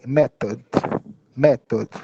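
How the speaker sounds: method with the O sounded; method with clear O. Shown as a demonstration. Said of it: "dá o compreendimento do O também".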